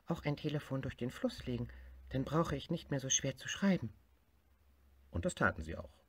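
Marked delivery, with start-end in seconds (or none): 0.1-3.9 higher, hopeful suggestion; a small tiger with a bright plan; little tiger voice. Acted. Tiger proposes a river phone to bear.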